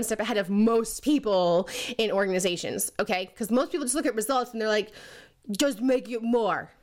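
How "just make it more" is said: ridiculous mocking voice. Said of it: "because of my ridiculous voice".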